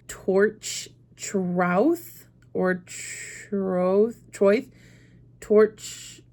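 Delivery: torch, trouth, troth, troith, said as tentative tries; trying out guesses. Shown as a demonstration. Testing ways to read a Welsh name aloud, unsure. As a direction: sound out each guess in turn. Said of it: "My brain wants to say".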